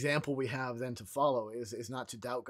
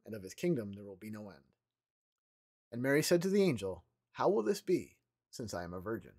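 scripture reading. Acted.

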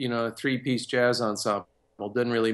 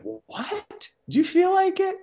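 high, put-on voice for the casual offer; high mock voice of a friend; imitating a casual friend; slower than usual. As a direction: pitch way up for a teasing shrug of a question. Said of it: "And I said".

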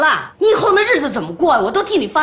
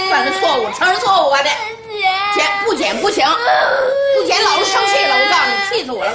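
发火骂; 3 semitones higher, faster than usual. Acted. 奶奶冲孩子发火.

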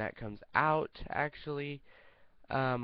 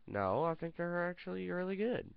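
higher, friendly puppet voice; a sweet puppet defending the videos; lightly voiced kind puppet; Mister Jenkins voice; 5 semitones higher than usual. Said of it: "Come here, Mister Jenkins".

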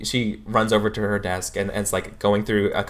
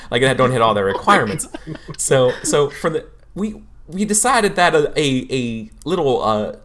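flustered counselor over-explaining; bumbly teacher; 3 semitones higher than usual. Acted. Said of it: "she's like".

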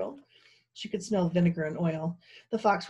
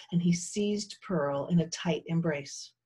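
ordinary delivery

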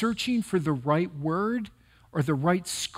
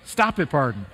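steadying himself; 3 semitones lower than usual. Real, not acted. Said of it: "I'm gonna get emotional again".

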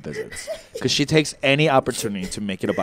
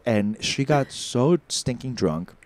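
usual speaking voice

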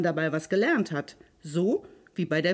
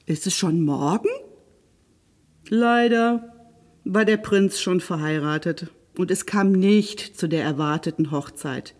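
lively, expressive fairy-tale narration; storyteller for children, varied pitch; story narration; 5 dB louder than usual. A narrator's reading. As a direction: read a fairy tale aloud with animated emphasis.

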